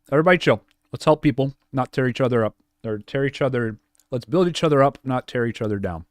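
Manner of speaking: loud, pleading voice. Real, not acted. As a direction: rally chat to be kind. Streamer pleading with chat.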